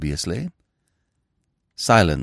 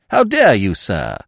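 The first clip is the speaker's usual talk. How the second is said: shocked detective-maid; indignant maid; 5 dB louder than usual. Acted. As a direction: maid rebuffing a kiss, indignant. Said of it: "she will reply".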